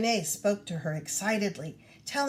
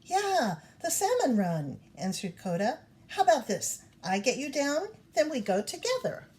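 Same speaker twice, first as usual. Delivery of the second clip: lightly voiced cub; 4 semitones higher than usual.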